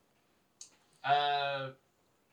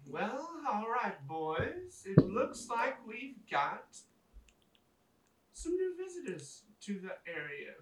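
melodious female goblin; 6 semitones higher than usual. Acted. Goblin shaman greeting her captives, melodious female voice. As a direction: croon it like a goblin ringleader. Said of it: "melodious female voice go".

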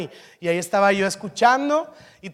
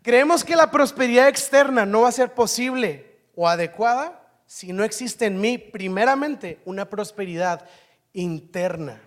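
emphatic preaching; 4 dB louder than usual. Acted. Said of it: "Voy a repetirlo".

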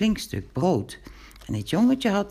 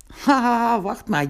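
laughing Piet; 9 semitones higher, 4 dB louder than usual. A narrator's reading. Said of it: "begon Zwarte Piet te lachen".

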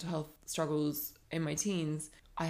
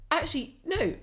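change of mind; 12 semitones higher, 4 dB louder than usual. Retold or imitated. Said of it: "self-correction".

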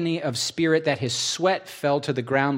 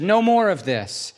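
firm stop; 6 semitones higher, 4 dB louder than usual. Acted. Jesus stops the fighting.

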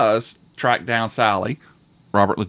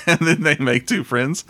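said again through a laugh, a bit higher; laughing repeat; 3 semitones higher than usual. Shown as a demonstration.

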